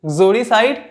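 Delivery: "exoricide" opening almost straight on "gz"; light initial vowel. Shown as a demonstration. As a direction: barely voice the first vowel of "exoricide". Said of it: "अ का हल्का सा pronounce करेंगे". ("exoricide" का पहला अ बहुत हल्का रखें)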